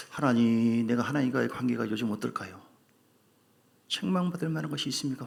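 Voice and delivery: soft, hushed humble prayer. Retold or imitated. Preacher models a humble prayer to God, hushed and pleading. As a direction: pray it quietly, asking for mercy. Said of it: "이렇게 볼 것이 아니라".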